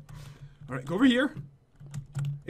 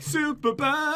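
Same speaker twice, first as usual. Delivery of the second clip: light mock announcer call, higher; imitating intro; 5 semitones higher, much slower than usual. Teasing the other player's announcement, imitating intro. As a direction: lightly mimic a grand entrance call. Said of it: "you gave him a cool intro".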